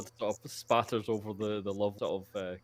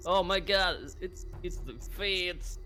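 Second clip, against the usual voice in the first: higher, slow panicked gasp; panicked poacher; 8 semitones higher, slower than usual. Acted. Poachers throwing down rifles, higher and panicked. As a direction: cry out in fright.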